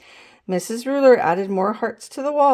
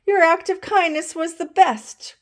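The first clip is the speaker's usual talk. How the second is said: excited praise; 7 semitones higher than usual. A narrator's reading. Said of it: "cried Missus Ruler".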